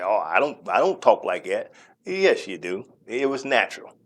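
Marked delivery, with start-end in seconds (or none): 0.0-1.7 mocking backtrack. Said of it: "backtrack and say".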